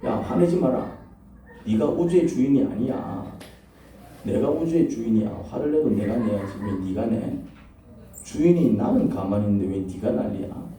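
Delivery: slow, restrained rebuke; lightly voiced divine reproof, unhurried; God. God reminding the preacher who owns the universe, slow mild rebuke. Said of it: "제가 요즘 이런 말씀을 자주 듣습니다".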